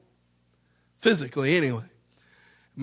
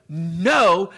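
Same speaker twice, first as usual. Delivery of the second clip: loud, drawn-out acted "no"; firm refusal; 5 dB louder than usual. Servant to the pleading debtor, loud refusal. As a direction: refuse him loudly in one word.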